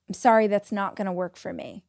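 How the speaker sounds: calm, even, unmoved refusal; same calm line again and again; broken record. Shown as a demonstration. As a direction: repeat it flat and steady like a broken record. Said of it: "be a broken record".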